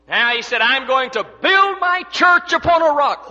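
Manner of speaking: forceful pulpit preaching with weighted key words. Real, not acted. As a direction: preach it out to the whole congregation.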